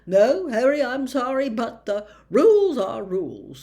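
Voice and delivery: flatly. A narrator's reading. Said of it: "said Fudge flatly".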